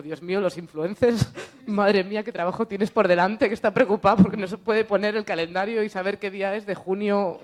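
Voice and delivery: mock despair, laughing loudly; loud amused disbelief; exasperated laughing rant. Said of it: "Y era como".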